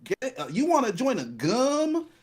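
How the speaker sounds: mock the cheesy sitcom joke; mock sitcom line. Retelling a cheesy sitcom gag to a friend, in a lightly mocking voice. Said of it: "the whole joke in that episode was".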